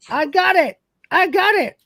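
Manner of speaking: high, loud eager yelps; a clumsy man grappling a monster; excited squeal. Acted. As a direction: cry it out while struggling. Dwayne wrestles the creature.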